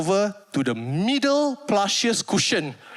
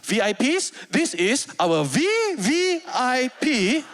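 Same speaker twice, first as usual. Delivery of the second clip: grand introduction. Retold or imitated. Mr Philip introducing the VIPs.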